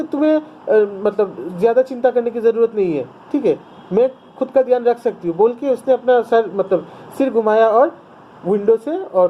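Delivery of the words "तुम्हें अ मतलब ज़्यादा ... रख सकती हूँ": put-on mildly irritated girl telling someone off; कहानी की लड़की का हल्का गुस्सा; annoyed reply. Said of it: "बहुत गुस्सा आ गया".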